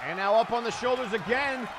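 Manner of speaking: excited live ring commentary; wrestling commentator. Acted. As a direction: call the match blow by blow.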